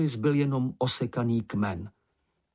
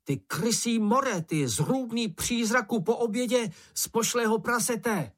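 insulting yell; 10 semitones higher than usual. A narrator's reading. Moomin hurls insults at the bush, mock-fierce yelling. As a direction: taunt the monster with childish fury. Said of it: "pokračoval".

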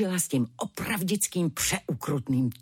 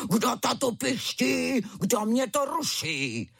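high, slow hammed-up cub roar; a hint of a fierce tiger cub; fierce little tiger roar; 7 semitones higher than usual. A narrator's reading. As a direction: play the cub outdoing his father. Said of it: "zařval ukrutněji než tatínek".

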